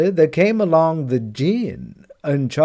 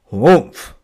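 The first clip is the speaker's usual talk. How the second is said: loud dismissive grunt; grumpy humph; 2 semitones lower, 6 dB louder than usual. Acted. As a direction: huff it out like a sulky camel. Camel refuses the dog.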